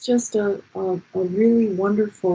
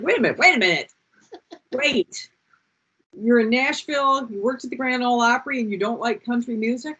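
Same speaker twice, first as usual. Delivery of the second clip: higher, halting disbelief; mock incredulous; 5 semitones higher than usual. Challenging her Nashville friend's confession, retold incredulity. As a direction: stop everything and question it in playful amazement.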